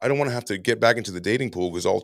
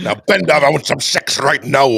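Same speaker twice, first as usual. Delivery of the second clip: loud, high, demanding, barked delivery; 5 semitones higher, 10 dB louder than usual. Doing a joke voice demanding sex: Sean Connery voice. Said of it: "It's like Sean Connery demanding sex".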